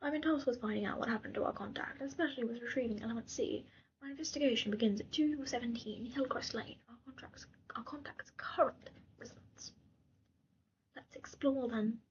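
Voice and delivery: lightly done mock British accent; a hint of British accent, not overdone. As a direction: read the game text in a put-on British accent. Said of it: "go back to the British".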